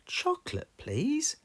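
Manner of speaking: very high little lamb voice; sweet small child asking; Susie Sheep voice. Acted. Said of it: "Susie Sheep said".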